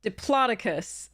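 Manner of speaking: Diplodocus slowly, stressed on PLOD; example of syllable emphasis. Shown as a demonstration. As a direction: say dih-PLOD-uh-cus for Diplodocus. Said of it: "have the emphasis placed on that syllable".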